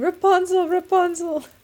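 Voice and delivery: high-pitched, loud shouting. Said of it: "sitting down there shouting".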